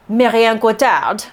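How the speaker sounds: name said with a French accent; French pronunciation. Shown as a demonstration. Reviewer trying the actress's name, French accent. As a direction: give Marion Cotillard her French sounds. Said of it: "That sounded pretty French".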